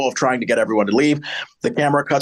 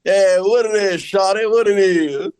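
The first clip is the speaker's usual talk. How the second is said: Southern rapper voice; 6 semitones higher than usual. Pretend. Host doing a pimp greeting in Southern rapper voice. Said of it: "you talk like you're a Southern rapper".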